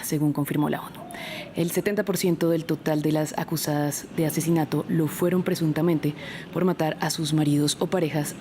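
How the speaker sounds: measured newsreader delivery; news read. Acted. Host introducing a report on Malala to viewers, news-anchor read.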